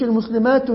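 المسلمات wrongly given a final "-un"; incorrect tanween. Shown as a demonstration. Teacher warning student what not to say, incorrect tanween. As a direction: add an n sound to the end of المسلمات. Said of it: "فما تقولش".

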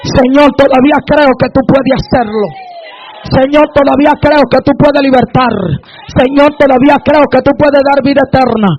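insistent, driving sermon in repeated declarations; full-force preaching. Real, not acted. Preacher declaring faith for the congregation, forceful preaching. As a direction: hammer out each declaration, building to a shout.

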